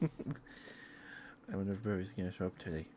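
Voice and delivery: said through a chuckle; laughing. Real, not acted. Streamer repeating her musing to chat, now laughing. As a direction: let a laugh carry the line.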